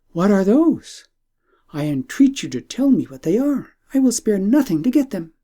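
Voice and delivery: eager princess. Acted.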